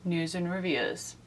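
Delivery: whispered title tagline; hushed show-name echo. Pretend. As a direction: breathe the words like a secret.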